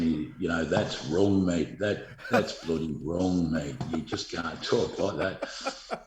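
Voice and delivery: light imitation of an Irish accent; a hint of a rich Irish brogue. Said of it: "in that rich Irish accent saying".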